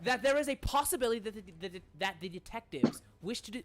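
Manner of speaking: lightly voiced formal gentleman, carefully hedging; formal manor character. Manor gentleman suggesting detectives as suspects, formal and hedging. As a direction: circle politely round the accusation.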